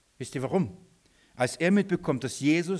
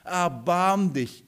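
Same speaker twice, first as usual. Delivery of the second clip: retold cry for mercy; 4 semitones higher, slower than usual. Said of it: "er schreit zu ihm".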